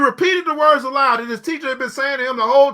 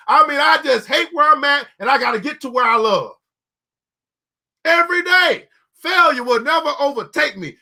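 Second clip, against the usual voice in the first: fervent preaching. Real, not acted. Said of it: "preaching at full force".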